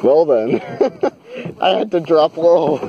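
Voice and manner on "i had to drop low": giggling through the words; laughing. Real, not acted. Ducks under a branch, laughing.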